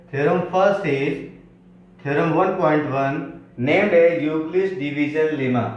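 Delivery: slow word-by-word dictation for notes. Shown as a demonstration. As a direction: dictate it slowly so students can write. Teacher dictates theorem slowly. (धीमे-धीमे लिखवाना)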